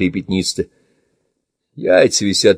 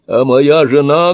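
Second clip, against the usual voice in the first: anguished cry; 6 semitones higher, 6 dB louder, slower than usual. Acted. Old man asking about wife.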